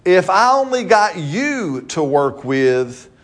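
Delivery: slow, easing down at the end; God reassuring. Retold or imitated. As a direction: tell the boy he is enough, gently and slowly. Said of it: "what he's saying is".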